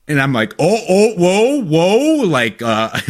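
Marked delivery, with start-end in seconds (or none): 0.6-2.2 higher-pitched, comic panicked interjection; mock alarm. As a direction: cut in with exaggerated alarm to stop them. Reenacts his alarmed reaction to question.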